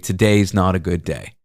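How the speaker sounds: mild retold vulnerability; vulnerable. Driver confiding to passenger, a touch vulnerable. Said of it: "He said very vulnerably".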